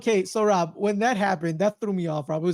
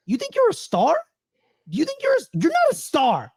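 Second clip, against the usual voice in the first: high-pitched, mildly yelled confrontation; retold yell; 9 semitones higher than usual. Coach confronts a player to his face, retold yell. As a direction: act out an indignant challenge, pitched up. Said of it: "he yells in Michael Cooper's face".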